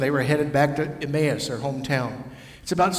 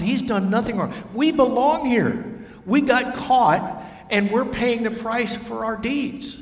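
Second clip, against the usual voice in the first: rebuking criminal; 8 semitones higher than usual. Acted. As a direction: scold the other thief hard. Other criminal rebukes the first.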